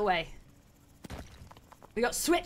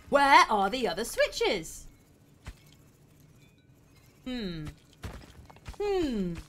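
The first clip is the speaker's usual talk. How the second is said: ordinary talk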